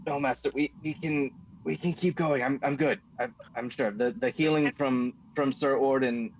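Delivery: a hint of a brave hurt servant. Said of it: "and he says".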